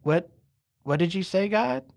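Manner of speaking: puzzled question rising high at the end; mildly bewildered man querying God; confused. Acted. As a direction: ask it baffled, lifting the pitch. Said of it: "stands there a little confused".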